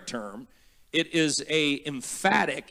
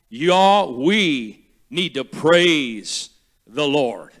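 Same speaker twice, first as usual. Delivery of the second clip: light Southern; 5 dB louder, much slower than usual. Acted. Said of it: "I'm gonna be a southerner".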